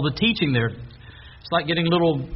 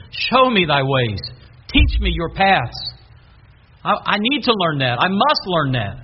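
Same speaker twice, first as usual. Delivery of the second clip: slow, earnest and a little louder; slow sincere prayer, a touch louder; heartfelt plea; 3 dB louder than usual. Shown as a demonstration. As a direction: plead it slowly from the heart. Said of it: "you talk about the feeling and the emotion".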